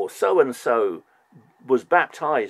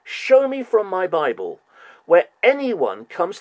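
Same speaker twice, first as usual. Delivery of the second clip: louder and higher, slowing on key words; heated rant; 7 semitones higher, 8 dB louder than usual. Real, not acted. Fed up with other churches' talk, a loud exasperated outburst. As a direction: hammer it home, exasperated.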